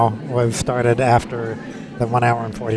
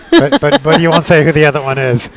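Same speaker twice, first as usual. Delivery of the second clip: teasing; 2 semitones higher, 5 dB louder than usual. Real, not acted. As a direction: tease with a squeal. Teasing co-host about top two.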